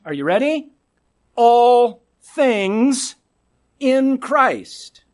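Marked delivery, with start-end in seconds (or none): 1.3-5.0 emphatic punchline. Real, not acted. Preacher revealing the key verse after asking "are you ready", louder. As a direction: ring it out as the payoff.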